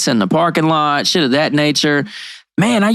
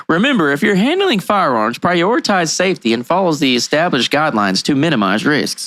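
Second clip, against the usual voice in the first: safety disclaimer read. Shown as a demonstration. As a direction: read it like a mock public service warning. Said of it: "let's do our due diligence and say this".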